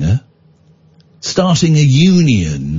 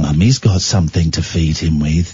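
put-on cutesy baby voice; 10 semitones lower than usual. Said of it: "they talk in a baby voice".

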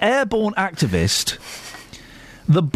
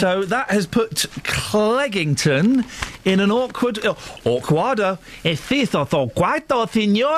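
put-on Spanish accent; 5 semitones higher than usual. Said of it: "great accents, great voices".

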